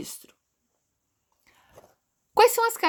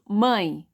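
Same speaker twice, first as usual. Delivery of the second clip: "Mãe" in one unbroken syllable; all together; 2 semitones lower than usual. Shown as a demonstration. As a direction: say "Mãe" as a single sound. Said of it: "Vem tudo junto".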